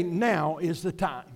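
soft, low, hushed but voiced; mock whisper. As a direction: confide it quietly, as a father to his son. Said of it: "going to whisper over to Jesus".

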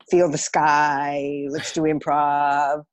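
slow, dreamy, far-off mock guru voice; lightly mocking the dreamy old teacher; airy hippie teacher. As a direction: drift it out like a flaky drama teacher. Mocking the former hippie drama teacher.

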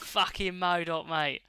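slow, drawn-out Cockney jibe; lightly exaggerated Cockney mate-to-mate insult. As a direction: play up the Cockney swearing, slowly. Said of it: "kind of Cockney slang style insult".

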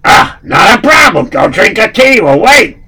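put-on high, loud Russian accent; eager Russian henchman.

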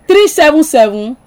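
slow, measured digit by digit; slow dictation. Real, not acted. Host giving caller a phone number, slow dictation. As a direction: read the number out slowly for note-taking.

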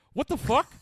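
high, loud shout of disbelief; imitated dad yelling; dad's startled yell. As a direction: holler it like a baffled dad. Dad calling out, retold.

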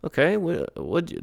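high, tight annoyed okay; through your teeth. Acted. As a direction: talk through gritted teeth. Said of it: "talking through your teeth".

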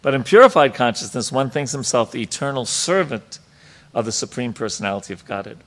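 emphatic, lifted reading voice; reading scripture aloud. Real, not acted. Teacher reads the purport to the class, emphatic read-aloud. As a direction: read it out with firm stress on key words.

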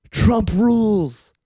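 loud, high, drawn-out cheer; rally shout. Retold or imitated. A rapper in the hat hyping Trump to fans, rally shout. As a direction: whoop it like a rally chant. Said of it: "and he's going".

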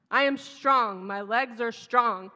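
put-on a touch of a small girl saying it slow and firm, fist clenched; slow, firm toddler pep talk; determined little girl. Twin talking herself up the mountain, lightly voiced determined child. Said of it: "I heard her say with her little fist clenched".

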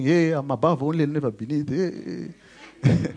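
quick, rote mock chanting; mechanical recitation. Believer asking pastor whether to just say Bible words, mock mechanical recitation. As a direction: rattle it off mechanically, trailing into noises. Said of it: "It's not mechanical".

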